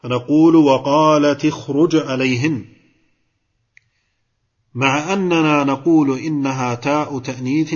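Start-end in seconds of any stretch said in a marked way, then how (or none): 0.6-2.8 "وقالت" joined to "اخرج" with a short i after the ta; kasra on the ta. Shown as a demonstration. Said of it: "التاء هنا مكسورة". (كسر تاء "وقالت" عند وصلها بـ"اخرج")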